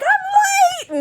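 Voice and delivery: high, loud mock holler; retold frantic yell. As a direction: call it out as if rushing. Retold rushing out, slamming doors.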